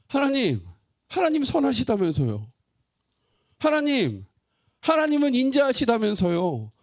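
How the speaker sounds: high, loud anguished plea to God; pleading cry. Acted. Preacher voicing the prophet's complaint to God, loud anguished plea. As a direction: cry out to God, demanding why.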